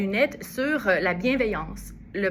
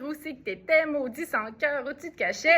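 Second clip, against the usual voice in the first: un reproche joué, un peu plus aigu, sans crier; reproche fâché; 5 semitones higher than usual. Acted. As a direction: interpeller l'absent comme un amant vexé, à moitié pour rire. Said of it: "Il est pas content". (reproche fâché légèrement joué)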